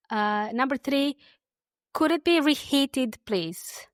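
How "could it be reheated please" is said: said slowly. Shown as a demonstration. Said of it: "I'll say them slowly".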